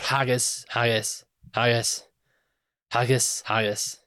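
lightly put-on Scottish accent, repeated chant; a hint of Scots in a mock sketch chant. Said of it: "Can you do Scottish accent?".

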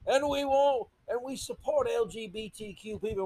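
sneering high-pitched parody, swelling to a shout at the end; mocking Billy Eichner accent. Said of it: "Why I'm doing that accent".

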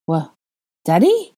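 shocked high squeak of disbelief; choked surprise. A narrator's reading. Harry stunned to hear he is called Daddy, high shocked squeak. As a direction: blurt it out, caught off guard. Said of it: "Harry choked".

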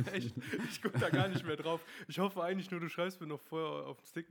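talking through laughter; words bubbling with laughs; laughing. Real, not acted. Laughing at missed dates.

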